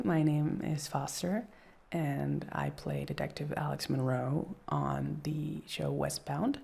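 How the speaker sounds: slow, careful interview intro; slow rehearsed interview pitch. Shown as a demonstration. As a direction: practise the self-introduction. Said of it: "I was rehearsing".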